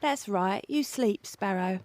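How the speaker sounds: hushed, gentle lull to a sleeper; soft and tender. Acted. Hushed and tender to Sparrow as she sleeps. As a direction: soothe her gently so she stays asleep.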